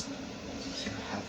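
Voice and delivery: milk the long-awaited revenge melodramatically; vengeful sufferer. Acted. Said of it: "he grabs the snake".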